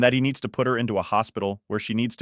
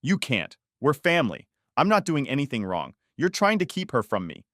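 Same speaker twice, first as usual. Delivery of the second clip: mock sobbing plea; 5 semitones higher than usual. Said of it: "Stepmother-in-law sobs".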